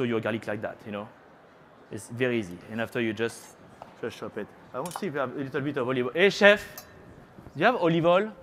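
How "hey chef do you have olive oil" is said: high, louder call across the kitchen. Real, not acted. Cooking teacher asks the kitchen chef for olive oil, loud call. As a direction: shout over to the chef to ask for oil. Calling to kitchen staff mid-demo.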